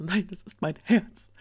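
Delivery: briefly hammed-up quote; dramatic. Narrator recalls the servant's line for listeners, mock-dramatic. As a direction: throw out a mock-dramatic declaration. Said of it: "sehr dramatische".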